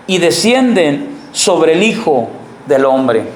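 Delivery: slow, measured Bible reading; unhurried reading of the Gospel; scripture reading. Acted. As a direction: read the verses slowly and solemnly. Reads John aloud in class.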